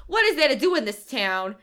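lightly voiced movie heroine, punched up; complaining newcomer impression. Critic imitating the actress in her first sequence, lightly acted. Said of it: "she's like".

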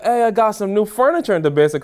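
retold giddy excitement; geeked. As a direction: imitate her bursting with news. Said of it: "when I tell you she was geeked".

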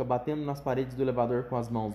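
usual speaking voice

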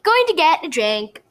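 high, breezy fib; innocent excuse. A narrator's reading. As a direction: toss the excuse off lightly. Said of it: "really great at making excuses".

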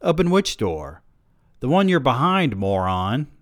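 high-pitched impatient back-and-forth; exasperated bickering. Acted. Two friends arguing over which door, exasperated. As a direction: snap it out high, then drop.

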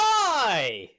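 loud, high-pitched wail of "why"; long, soaring shout of protest; exasperated shout. Real, not acted. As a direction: holler it out in disbelief. Co-host cuts in, exasperated at broadcast.

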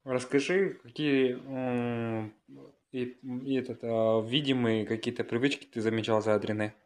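breaking up on a bad call; bad connection. Real, not acted. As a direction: voice cutting out over the line. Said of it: "что-то связь плохая была".

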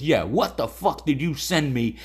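mildly indignant, rising complaint; retold anger. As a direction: imitate an affiliate who is fed up. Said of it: "He was fucking mad".

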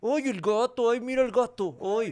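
whiny cat voice. Shown as a demonstration. Man showing his complaining animal voice, high whine. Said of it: "Ay, ay, ay", como".

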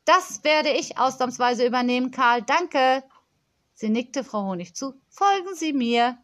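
put-on a pampered child scolding a supplier; spoilt girl on phone. Girl dismisses Karl.

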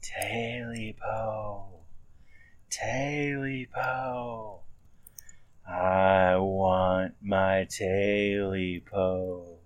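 slow, drawn-out, eerie wail; a hidden creature moaning for its lost tail. A narrator's reading. Creature in the dark moaning for its tail, slow eerie wail.

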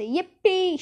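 high-pitched joyful whoop; shouted glee. A narrator's reading. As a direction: whoop with delight. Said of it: "shouted Grandpa Joe again".

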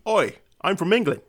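put-on English accent with an "Oi". Shown as a demonstration. The speaker answering the host's request on demand, English accent. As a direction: do your best English accent. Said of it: "your best English accent".

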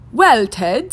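jaunty weatherman voice; a breezy TV weatherman. Acted. Weatherman answers.

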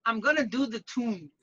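tentative Geordie copy in a Bronx voice; half-caught Geordie vowels on "tune"; attempted Geordie accent. Shown as a demonstration. Bronx groomer copying the host, shaky grasp of Geordie accent. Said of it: "you have a go".

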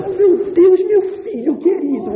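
put-on high, gushing baby-talk to a son; doting mother. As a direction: play a mother melting over her crying baby. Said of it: "que a mãe levanta pra dar de mamar". (mãe babona, voz bem aguda)

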